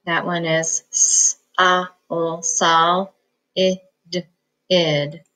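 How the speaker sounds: slow syllable by syllable; decoding solid aloud; sounding out syllables. Shown as a demonstration. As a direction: break it into its parts. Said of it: "let's start with this first one".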